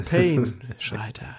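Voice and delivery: slow unvoiced whisper. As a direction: breathe it slowly, voiceless. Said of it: "Es ist schon etwas theatralisch".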